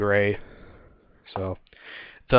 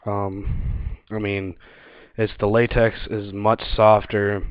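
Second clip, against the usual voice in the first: talking inside a gas mask; muffled mask voice; muffled through gas mask; 5 dB louder than usual. Real, not acted. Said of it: "I'll put the mask on".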